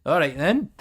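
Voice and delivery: lightly put-on Scottish accent. Host plugging gift subs to viewers, Scottish accent. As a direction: keep the Scottish accent going. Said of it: "keep the Scottish accent going".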